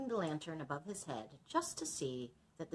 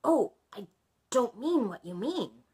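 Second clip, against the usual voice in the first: higher, louder dragon voice; 6 semitones higher, 9 dB louder than usual. Acted. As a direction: speak up as the dragon.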